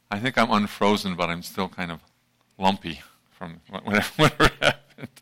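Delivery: talking with a numb, swollen lip; numb mouth. Real, not acted. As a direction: speak through a mouth still numb from dental work. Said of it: "this side of my mouth is still a bit weird".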